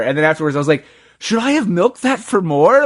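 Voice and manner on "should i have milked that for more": much higher, mock regretful; self-quote. Speaker retelling his own regret afterwards, high and rueful. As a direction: squeak up with regret.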